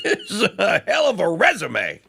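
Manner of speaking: real laugh breaking into the words. Real, not acted. Host laughing at the resume he just read out. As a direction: chuckle through the line, amused.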